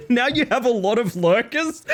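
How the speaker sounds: high, laugh-choked speech; real laughing. Real, not acted. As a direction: squeeze the words out between laughs. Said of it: "that made me laugh a lot".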